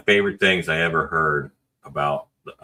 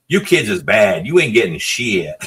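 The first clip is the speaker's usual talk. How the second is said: drawn-out, raised mock scolding; singsong, higher-pitched telling-off; imitated scolding parent; 4 semitones higher, 3 dB louder than usual. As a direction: holler it slowly like a fed-up parent in the next aisle. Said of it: "we hear from the other aisle over".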